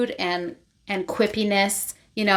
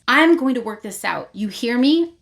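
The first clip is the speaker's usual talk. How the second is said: slightly raised, insistent mock warning; confronting; 4 semitones higher, 3 dB louder than usual. Vea to Rave, finally confronting her, insistent. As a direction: lay down a firm challenge. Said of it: "finally confronts her and says".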